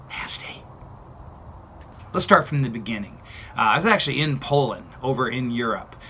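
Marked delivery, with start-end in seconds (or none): 0.1-0.6 whispered in disgust, barely voiced; whispered nasty. Real, not acted. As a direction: breathe it out, grossed out. Disgusted aside at pictures.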